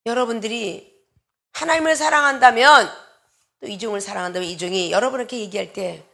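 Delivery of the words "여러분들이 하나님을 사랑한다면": ordinary delivery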